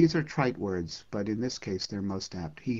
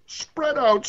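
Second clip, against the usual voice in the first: higher, loud command spread out; sun's command; 7 dB louder than usual. Acted. The sun ordering the poet, sharp higher command. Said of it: "he spoke deep bass".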